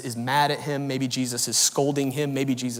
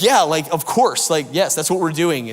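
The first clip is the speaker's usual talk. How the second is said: mock duh answer; 3 semitones higher, 7 dB louder than usual. Acted fishermen's obvious answer.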